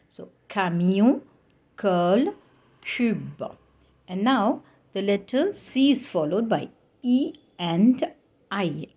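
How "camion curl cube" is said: camion, curl, cube each begun with a K sound; French words one by one, hard K in camion, curl, cube. Shown as a demonstration. Teacher giving examples of hard C, camion, curl, cube with K. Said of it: "we pronounce it as".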